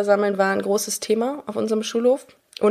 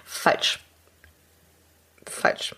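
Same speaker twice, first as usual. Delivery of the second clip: breathy whispered verdict, softer; 5 dB quieter than usual. Acted. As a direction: whisper the answer dryly. Flat rebuttal of a claim.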